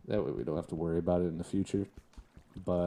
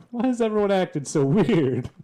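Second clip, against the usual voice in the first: much higher and louder, squeaky put-on voice; high squeaky joke voice, loud; mock bewildered squeal; 12 semitones higher, 13 dB louder than usual. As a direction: play it as a cartoonish shriek of disbelief. Mocking mobs acting strangely.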